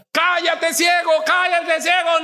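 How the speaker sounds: high, insistent hushing yell; acted crowd scolding, pitched high; silencing shout. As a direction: shout down a noisy beggar. Acted crowd silencing the blind man.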